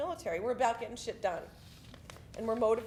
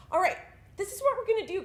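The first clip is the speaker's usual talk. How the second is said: raised, high-pitched order to the squad; rally the squad with a louder, higher voice; barking orders; 8 semitones higher, 6 dB louder, faster than usual. Retold or imitated. Small platoon guide addressing big squad leaders, barking orders.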